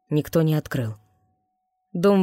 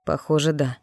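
ordinary delivery, nothing marked

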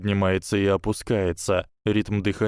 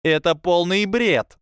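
much higher, louder, slow; indignant retort; 10 semitones higher, 5 dB louder than usual. A narrator's reading. Parvati scoffing at Tracey, high and indignant. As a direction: cut her down, indignant.

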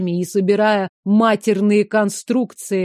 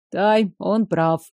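gentle; slower than usual. Acted. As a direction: say it kindly, with a smile. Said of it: "мягко улыбнулся Асмин".

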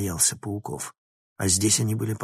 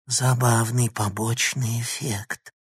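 hoarse gurgle; slower than usual. Acted. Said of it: "хрипло проклокотало оно".

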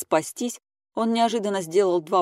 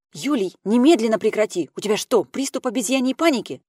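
sharp rebuke; 6 semitones higher, 5 dB louder than usual. A narrator's reading. Tasya stops Kopeikin's attack.

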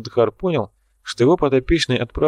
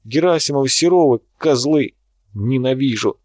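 hysterical outburst; 3 semitones higher than usual. Acted. Artist's outburst at critics.

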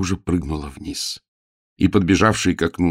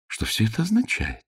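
much higher astonished question; lady startled by the scene; 11 semitones higher, 4 dB quieter than usual. Acted. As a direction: ask it high in disbelief. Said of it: "изумлённо проговорила".

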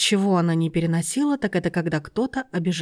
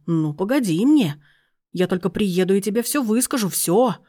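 loud drawn-out furious yells; yelling down the phone; 2 semitones higher, 3 dB louder, slower than usual. Acted. Aunt, shouting at her friend on the phone, furious yelling. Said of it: "вопли тётушки".

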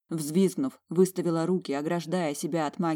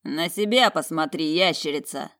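louder, sharp taunting bark; loud defiant retort; bold bark; 5 dB louder than usual. Acted. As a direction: snap it back at him, loud and daring. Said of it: "смело рявкнул брат".

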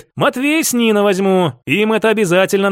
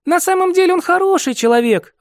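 put-on higher, sighing young woman's voice; 11 semitones higher than usual. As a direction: say it with a sigh. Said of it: "вздохнула Катя".

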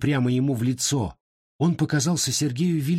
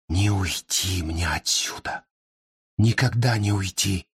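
anguished; 4 semitones lower than usual. A narrator's reading. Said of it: "с тоской подумал Сергей".

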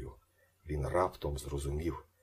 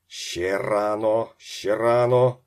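loud, drawn-out plea, climbing higher; anguished cry; 4 semitones higher, 11 dB louder, much slower than usual. A narrator's reading. Father pleads with son before touchdown, anguished cry. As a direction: cry out desperately, building louder and higher. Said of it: "плакав він".

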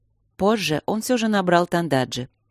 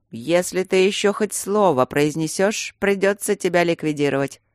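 ominous warning; 3 semitones higher than usual. Acted. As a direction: warn him menacingly. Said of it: "зловеще предупредил Тидус". (зловеще, с угрозой)

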